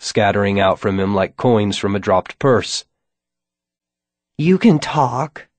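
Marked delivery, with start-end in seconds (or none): 4.4-5.5 high, slow rasping hiss; rasping vampire. A narrator's reading. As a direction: rasp it out like a corpse. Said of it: "Drulinda rasped".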